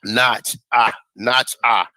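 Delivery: "not ah" sounded out as NOTCH-ah; French pronunciation. Shown as a demonstration. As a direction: say "not ah" in two separated parts, NOTCH-ah. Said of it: "the French pronunciation was".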